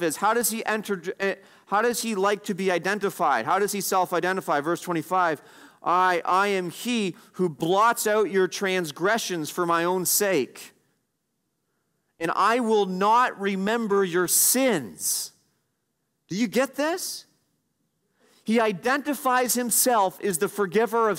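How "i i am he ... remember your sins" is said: slow, deliberate weight on each phrase of "I, I am he"; emphatic. Acted. Preacher quoting the Lord who forgives sins, emphatic. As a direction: draw out "blots out" and "not remember" with solemn emphasis.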